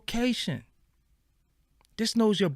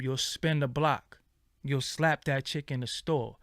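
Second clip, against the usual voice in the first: ordinary talk, nothing marked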